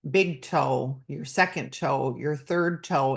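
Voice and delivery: lightly voiced yoga instructor, slow start; guiding instructor. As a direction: ease through it like a body-scan cue. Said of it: "instructors will focus on the foot and say".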